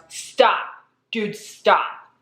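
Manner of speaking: yelled. Retold or imitated. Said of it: "Mike suddenly yells".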